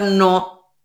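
low, short mock-sulky answer; a touch of closed-off sulk; sulky refusal. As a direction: lightly play someone silently fuming. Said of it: "Estás enmulado".

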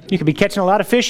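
eager salesman pitch, quick; pushy German guy. Retold or imitated. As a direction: rattle it off to sell the idea. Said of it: "He says".

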